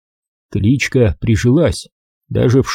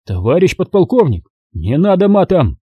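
flustered protest; 6 semitones higher than usual. Acted. Lieutenant protests the swearing.

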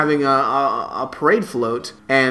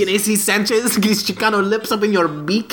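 put-on Chicano accent; 4 semitones higher than usual. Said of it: "Where did that accent come from".

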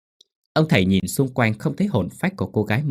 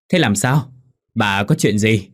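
alarmed; 5 dB louder, slower than usual. A narrator's reading. Husband alarmed by wife's wailing.

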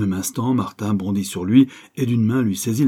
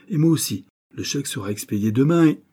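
higher, aggressive retort; 6 semitones higher, 4 dB louder than usual. A narrator's reading. Hot-tempered manager rebuffing Martin, aggressive. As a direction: cut in with some aggression. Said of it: "dit-il d'un ton agressif".

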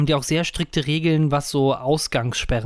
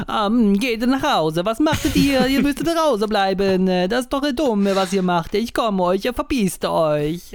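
put-on Italian accent; 6 semitones higher than usual. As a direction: play an angry Italian mayor scolding in Italian-accented German. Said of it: "Deutsch mit italienischem Akzent".

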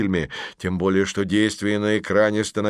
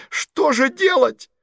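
high desperate plea; 4 dB louder, slower than usual. Acted. Masha panics at screen.

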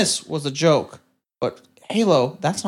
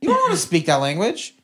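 laughing disbelief; 8 semitones higher than usual. Retold or imitated. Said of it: "I'm like".

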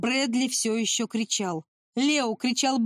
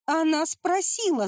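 a higher, defensive yell; shouting back; 7 semitones higher than usual. Acted. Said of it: "закричал в ответ Уолтер". (выкрикнуть в ответ, выше)

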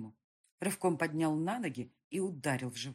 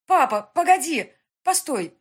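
pleading cry; 8 semitones higher, 12 dB louder than usual. A narrator's reading. Daughter begs father to wait.

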